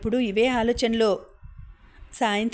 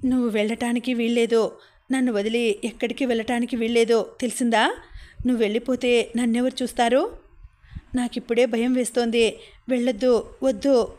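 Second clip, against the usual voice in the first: pleading, near tears. Acted. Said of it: "గట్టిగా ఏడ్చేశాను".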